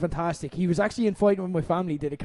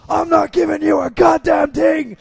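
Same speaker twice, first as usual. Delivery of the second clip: much higher, much louder furious refusal; mock shouting match; 9 semitones higher, 8 dB louder than usual. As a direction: roar the refusal back at him. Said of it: "And Hunter saying".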